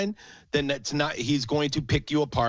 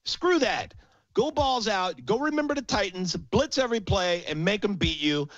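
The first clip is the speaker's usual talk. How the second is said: heated rant, pitched higher, building to a shout; real anger; 6 semitones higher than usual. Real, not acted. Fed-up fan ranting to his co-host about the defense, real heated anger. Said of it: "I'm so annoyed".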